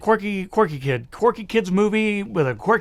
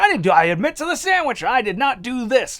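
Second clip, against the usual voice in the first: mock protesting kid; 5 semitones higher than usual. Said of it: "Fred Savage is like".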